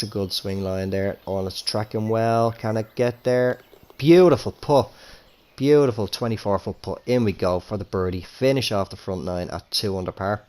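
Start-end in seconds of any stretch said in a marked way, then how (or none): 1.6-10.1 rising excited TV golf call; golf commentator. Acted. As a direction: call the putt like a broadcaster. Calling the putt like TV.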